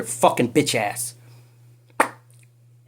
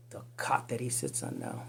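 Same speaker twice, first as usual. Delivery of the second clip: breathy menacing whisper, much lower; low unvoiced threat; 12 semitones lower, 13 dB quieter than usual. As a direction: hiss it like a dark secret. Sinister aside to the accused.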